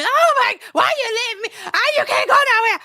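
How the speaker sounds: high, loud, hammed-up panic; mock screaming. Imitating a man trying to stop her leaving, mock screaming. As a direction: mimic a desperate man screaming out his plea. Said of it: "they're not gonna be screaming".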